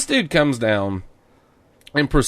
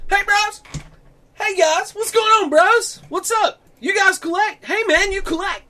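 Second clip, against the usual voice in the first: much higher, hyped-up bro voice; imitating a hipster bro. Imitating the pushy hipster clerk, hyped-up bro voice. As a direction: play the pushy hipster salesman. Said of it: "I'm gonna try to emulate this guy".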